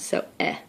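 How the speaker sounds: a bare short eh vowel; short e sound. Shown as a demonstration. Teacher modelling the short vowel, bare eh. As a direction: clip out a quick eh. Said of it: "short E sound".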